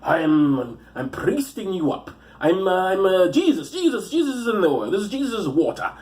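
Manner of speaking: hammed-up holy patter; mock priest. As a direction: improvise a silly priest's blessing.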